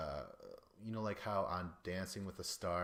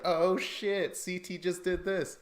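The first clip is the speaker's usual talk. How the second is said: higher, louder hyped-up sidekick shout; hype man; 9 semitones higher, 7 dB louder, slower than usual. Retold or imitated. Imitating the sidekick cheering during the fight, loud hype-man shout. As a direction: pump up the crowd like a hype man. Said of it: "He was the hype man".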